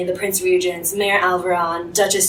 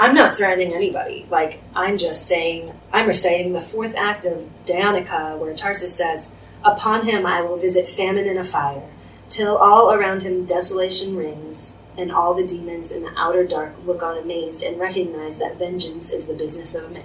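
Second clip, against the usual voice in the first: ordinary talk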